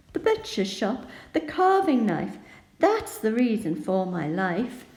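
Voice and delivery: pig growing shocked, pitch climbing on carving knife; sounding shocked. Shown as a demonstration. Teacher reading the pig's lines to the class, growing shocked. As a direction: read it with rising alarm, building to the end. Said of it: "So we're sounding shocked in this first section".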